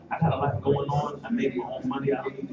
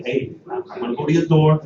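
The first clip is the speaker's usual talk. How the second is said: determined declaration; 5 semitones higher, 11 dB louder than usual. Retold or imitated. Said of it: "I like".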